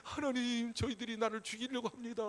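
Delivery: imitating a plea to God; acted desperate prayer. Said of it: "가가지고 엎드려".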